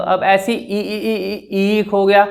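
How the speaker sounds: slow, drawn-out repeated ई, stuck; stammer demo. Shown as a demonstration. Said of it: "मुझसे ना ना बोला गया ना र".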